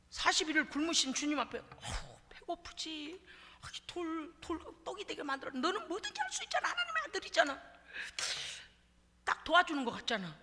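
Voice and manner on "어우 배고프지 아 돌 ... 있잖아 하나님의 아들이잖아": tempting devil voice. Acted. Devil tempting hungry Jesus to turn stones to bread, soft and wheedling. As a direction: coax like a sly tempter.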